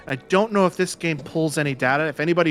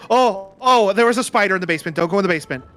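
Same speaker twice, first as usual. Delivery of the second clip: mock panic; 3 semitones higher, 4 dB louder, faster than usual. Imitating a panicky ancestor.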